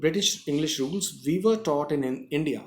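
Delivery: slow, deliberate reading; slow dictation. Shown as a demonstration. Teacher reading the text slowly to the class. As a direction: read it out slowly for learners.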